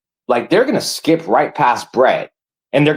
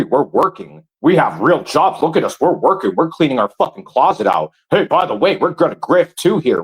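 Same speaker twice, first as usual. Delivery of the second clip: mock-chatty parody of rival streamers; sing-song jeering impression, ending on a fake "ha ha"; mocking imitation. Angry streamer parodies rivals pitching to their viewers, mockingly.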